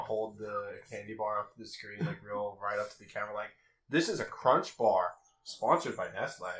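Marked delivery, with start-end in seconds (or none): 3.9-6.5 mock product plug. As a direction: push the brand at the camera in mock earnest. Mock product-placement pitch to camera.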